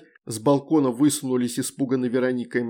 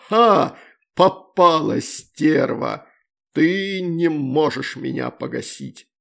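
loud, slow, higher crowing; gloating triumph; 4 semitones higher, 6 dB louder, slower than usual. A narrator's reading. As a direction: gloat over the caught enemy. Ex-husband gloating through mirror. (злорадный торжествующий крик)

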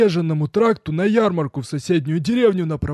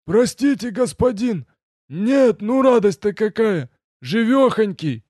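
overjoyed; 9 semitones higher, 4 dB louder, slower than usual. A narrator's reading. Servant's joy at master.

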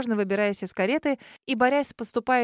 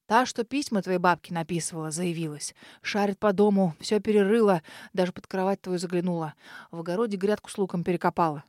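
lower, hushed house-spirit voice, urgent; an old house spirit warning in a low hush; domovoy's whisper; 4 semitones lower than usual. Acted. House spirit warns the girl of an intruder, low hush.

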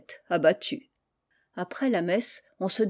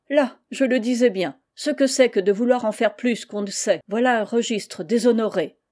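lightly voiced pompous clerk; fussy official scolding; 3 semitones higher, 4 dB louder than usual. (adjoint vexé qui gronde, voix plus haute)

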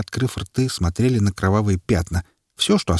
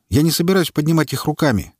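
gruff; 8 semitones higher than usual. A narrator's reading. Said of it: "сказал грубовато".

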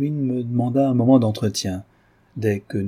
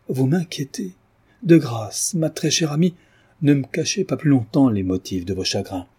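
Orville suppliant. Acted. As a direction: beg her gently to confide. Orville implores the grieving heroine. (amant inquiet qui supplie, voix un peu plus haute)

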